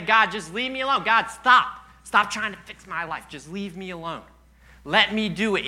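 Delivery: mock-exasperated cry to God to back off; retold frustrated pleading; fed-up protest. Acting out people rejecting God.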